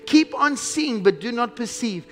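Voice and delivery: slow, declaimed prophecy with stretched key words; slow, solemn proclamation; scripture reading. Acted. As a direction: read it out weightily, phrase by phrase. Reads Isaiah's prophecy aloud.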